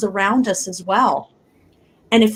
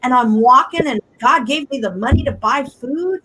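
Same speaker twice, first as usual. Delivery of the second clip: joyful praise; 4 semitones higher than usual. Retold or imitated. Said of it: "we should be sitting up and saying".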